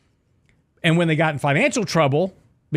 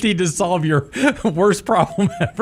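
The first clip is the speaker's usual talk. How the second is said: chipper 1950s ad; 5 semitones higher than usual. Pretend. Mock coffee ad pitch.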